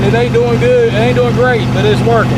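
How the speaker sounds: loud and high over the running engine; shouting over engine. Real, not acted. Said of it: "I don't know if you can hear me over the engine".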